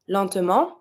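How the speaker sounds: LENTEMENT ending on a nasal vowel, no T; silent final T. Shown as a demonstration. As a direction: leave the last T of "Lentement" silent. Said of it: "you're not gonna pronounce the T".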